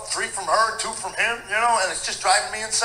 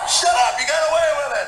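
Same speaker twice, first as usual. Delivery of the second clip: loud, higher scoffing retort; mock exasperated shout; 6 semitones higher, 4 dB louder than usual. Father reacting to son's confession letter, mock shout. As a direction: yell it like you can't believe it.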